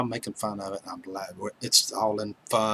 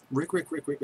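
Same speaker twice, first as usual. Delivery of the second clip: chirpy higher bird call, quick repeats; a light bird-call imitation; 5 semitones higher than usual. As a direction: mimic a bird chirping the name. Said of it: "I swear that's what it sounds like".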